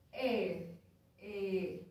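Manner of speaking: ordinary talk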